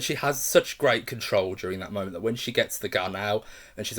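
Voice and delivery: ordinary talk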